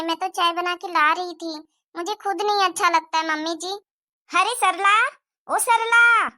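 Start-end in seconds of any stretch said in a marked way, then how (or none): 4.3-6.3 calling out. Acted. Visitor calling out from outside.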